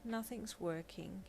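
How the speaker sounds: slow, soft and downcast; a quiet, defeated admission; sadly. Acted. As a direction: trail off in quiet sadness. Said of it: "he stated sadly".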